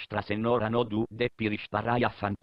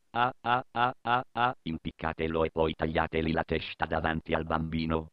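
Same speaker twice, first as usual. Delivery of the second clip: villain laugh; 5 semitones lower than usual. Acted. Villain laughs and orders execution.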